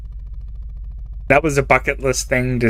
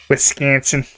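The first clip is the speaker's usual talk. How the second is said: lightly mimicking the Wisconsin accent on Wisconsin. Shown as a demonstration. Amused streamer mocking the Wisconsin accent, light Wisconsin accent. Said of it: "the Wisconsin accent was always the funniest".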